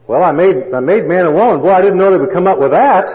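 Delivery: loud, high amazed exclamation; God amazed. Retold or imitated. Preacher voicing God, amazed at his creation. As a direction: marvel out loud at what humans did.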